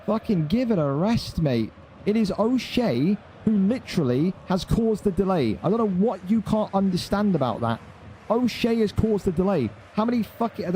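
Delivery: high, exasperated scolding; heated rant. Real, not acted. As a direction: scold him, pitch up. Ranting at a chat complainer.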